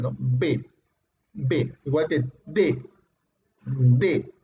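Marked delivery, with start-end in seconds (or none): 0.2-1.7 low "B" with air held, then released; plosive B. Shown as a demonstration. Teacher repeating the occlusive example, plosive B. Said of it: "Acumulas aire y sale de golpe". 3.6-4.3 low "D" released in one burst; plosive D. Shown as a demonstration. Teacher showing another occlusive, plosive D. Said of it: "Sale de golpe".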